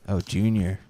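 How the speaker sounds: a hint of a Boston accent on Junior. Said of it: "Boston accent".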